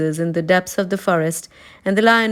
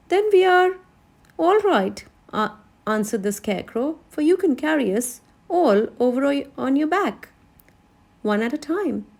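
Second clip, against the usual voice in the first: higher, eager Scarecrow; 6 semitones higher than usual. A narrator's reading. Scarecrow telling Lion to carry them, higher and eager. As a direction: Scarecrow cheerfully solving the problem.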